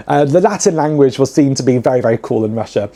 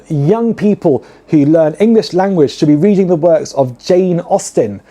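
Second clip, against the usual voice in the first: quoting the stern lecturer; 3 semitones higher than usual. Retold or imitated. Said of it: "to give a quote".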